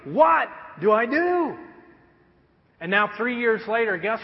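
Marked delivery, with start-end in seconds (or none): 0.0-1.5 panicked cry. Acted. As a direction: throw it out like a helpless new parent. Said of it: "I mean, like, literally".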